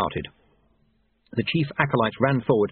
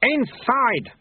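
high, drawn-out command; roared order; 13 semitones higher than usual. A narrator's reading. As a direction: order the pupil in sharply. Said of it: "Lutze roared".

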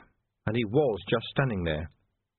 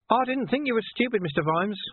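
sly villain; 12 semitones higher than usual. A narrator's reading. Villain voiced high.

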